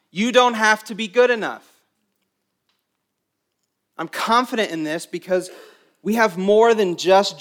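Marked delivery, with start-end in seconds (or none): 0.1-1.7 emphatic. Shown as a demonstration.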